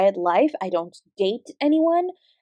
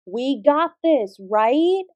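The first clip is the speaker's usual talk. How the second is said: "We got this, right?" slower and a little louder, drawn out to rouse the room; louder rallying call; 2 semitones higher, 3 dB louder, much slower than usual. Acted. Teacher repeating her rallying call to get more energy, louder and slower. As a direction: pump the class up this time. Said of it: "We can do better than that".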